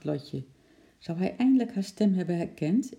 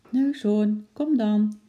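high, louder coaxing call; gentle calling; 6 semitones higher, 6 dB louder, slower than usual. A narrator's reading. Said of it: "riep Lotje zacht". (zachtjes lokkend roepen)

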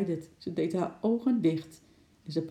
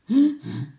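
imitated sawing; 6 semitones higher, 8 dB louder than usual. A narrator's reading. Imitating a saw at work.

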